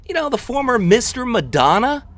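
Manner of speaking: high, loud retold prompting. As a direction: blurt it out so bystanders can hear. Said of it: "I kinda said it out loud".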